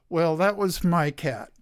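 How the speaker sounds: winded after chasing the cat; breathless, catching air between words; out of breath. Real, not acted. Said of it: "I'm out of breath".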